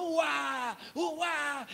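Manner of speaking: high-pitched mock bawling; hammed-up kid crying out; imitated child's wail. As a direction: wail like a smacked little boy. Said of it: "E ele gritando".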